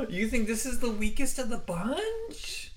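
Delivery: gasp, then high disbelief; slow, high incredulous question; shocked. Real, not acted. Shocked by co-host's pick.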